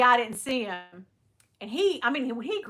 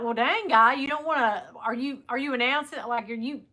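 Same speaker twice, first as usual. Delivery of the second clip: incredulous rant; 2 semitones higher, 4 dB louder than usual. Retold or imitated. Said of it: "And I'm like".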